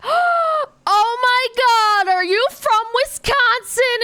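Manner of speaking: high, loud, thrilled surprise; excited gasp. Retold or imitated. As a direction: gasp and squeal it with delight. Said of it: "And I was like".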